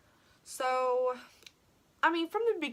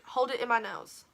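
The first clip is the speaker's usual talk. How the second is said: 1 whisper. Real, not acted. Explaining how she held the stud in.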